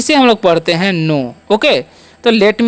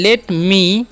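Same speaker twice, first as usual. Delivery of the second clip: slow demo; 2 semitones lower than usual. Shown as a demonstration. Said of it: "देखिए यहाँ पर भी late है".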